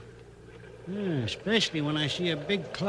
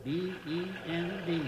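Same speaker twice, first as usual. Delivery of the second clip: spelling out; 8 dB quieter, slower than usual. Acted. Reading semaphore letters aloud.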